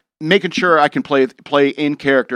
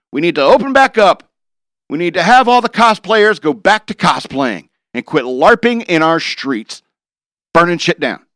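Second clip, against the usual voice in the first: raised, pitched-up rant about reopening; a fired-up, louder demand to reopen; 4 semitones higher, 4 dB louder than usual. Real, not acted. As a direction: call it out loud and high like a soapbox rant. Ranting about rioters and cosplayers.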